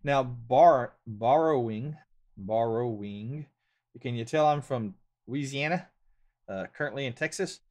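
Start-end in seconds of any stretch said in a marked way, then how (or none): 1.1-3.4 "borrowing" sounded out as bor-oh-wing, rising at the end; careful pronunciation. Shown as a demonstration. Louisiana host retrying the word, "borrowing" carefully sounded out. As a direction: practise "borrowing" syllable by syllable, slower the second time. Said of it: "let me see if I can say it again".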